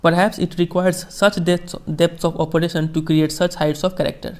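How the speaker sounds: slow, measured reading of a famous speech; formal speech reading. Acted. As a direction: read each phrase slowly, like quoting a statesman. Teacher reads Mandela speech slowly. (धीमा, गंभीर भाषण पाठ)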